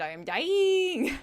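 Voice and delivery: high, slow, hammed-up death moan; melodramatic dying whine. Runner sure they are dying, in a high, slow, hammed-up wail. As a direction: play the runner who thinks this is the end. Runner's exhausted inner thought, acted.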